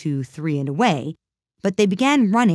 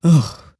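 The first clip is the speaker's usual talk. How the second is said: a cold shuddering ugh; shivering ugh; 7 dB louder than usual. A narrator's reading. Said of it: "said the Lory with a shiver".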